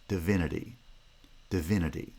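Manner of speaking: Divinity with stress on VIN and a schwa in the first syllable; stress pattern demo. Shown as a demonstration. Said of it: "the D of the first syllable ... schwa".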